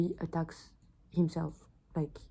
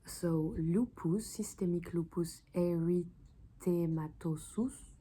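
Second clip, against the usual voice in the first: careful slow pronunciation; slower than usual. Shown as a demonstration. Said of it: "sorry for my bad accent".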